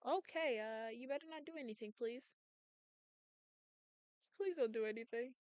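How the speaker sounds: very soft, uneasy pleading; hushed plea. Acted. Listener begging Double not to do anything, hushed. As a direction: plead under your voice.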